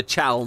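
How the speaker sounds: "Chal" with an open ah sound; pronunciation. Shown as a demonstration. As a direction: say "Chal" like chal, not chul. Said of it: "not Chul".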